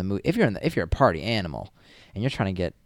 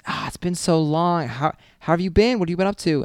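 higher, chummy catch-up; chummy stranger; 9 semitones higher, 4 dB louder than usual. Retold or imitated. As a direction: sound like you've known them for years. Stranger keeps chatting familiarly.

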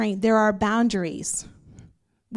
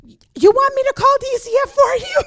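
high, loud mock mother's yell; mom's threat; 10 dB louder than usual. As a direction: shriek it like an exasperated mom. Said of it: "my mom would say".

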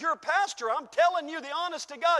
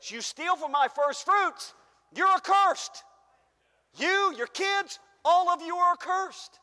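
God's rebuke; 4 semitones higher, 5 dB louder, slower than usual. Acted. Voicing God in Malachi.

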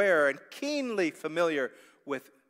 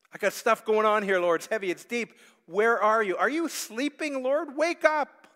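pleading, climbing higher and louder to a cry; desperate plea; 8 semitones higher, 9 dB louder than usual. Acted. Believer crying out to a sleeping God, rising plea. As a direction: build from urgent to a high desperate call.

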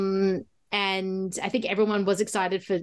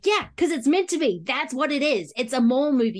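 tag emphatic retort; 4 semitones higher than usual. Retold or imitated. Mock reply to a critic's remark.

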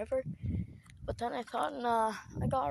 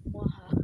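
quick mock evil laugh; sneering panto villain; 3 semitones lower than usual. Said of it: "I sound like an evil villain".

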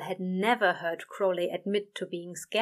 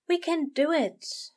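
reassuring murmur; 9 semitones higher than usual. A narrator's reading. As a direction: gently reassure him. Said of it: "he murmured".

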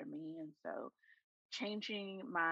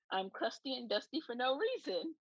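stuffy nose, one nostril blocked; talking through a blocked nostril; nasal voice. Real, not acted. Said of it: "if I sound a little nasal".

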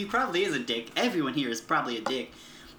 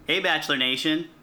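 Chris Harrison; 4 dB louder than usual. Pretend. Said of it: "I would love to be Chris Harrison".

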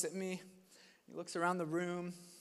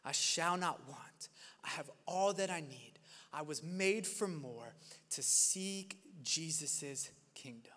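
quiet prayerful; 3 semitones lower, 3 dB quieter than usual. Pretend. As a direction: pray it gently under your breath. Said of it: "would you say".

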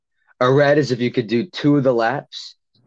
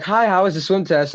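high-pitched greeting, imitating a sister; mock cheery hello, pitched way up; chirpy sister; 9 semitones higher than usual. Sister greets the defeated swimmer.

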